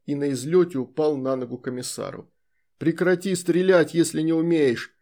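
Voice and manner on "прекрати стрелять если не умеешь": loud angry command; shouting orders over battle. Acted. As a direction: order him to stop firing. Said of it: "кричал командир полка".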